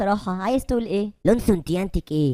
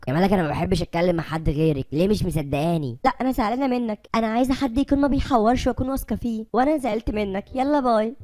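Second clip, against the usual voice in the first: lightly voiced sulking girl; 2 semitones higher than usual. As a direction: sulk and brush him off like a hurt girlfriend. Malak's girl figure sulking. (ملك زعلانة بصوت أرفع شوية)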